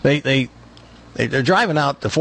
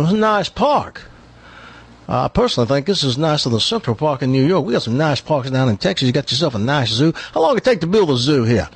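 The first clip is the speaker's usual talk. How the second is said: lightly voiced bragging Texan; Texas accent; 3 semitones higher than usual. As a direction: play the condescending Texan visitor. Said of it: "He's one of these Texans that brags".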